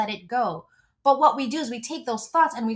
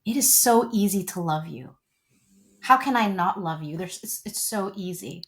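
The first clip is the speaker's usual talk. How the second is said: husband's voice, lightly; 4 semitones lower than usual. Retold or imitated. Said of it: "his response is always".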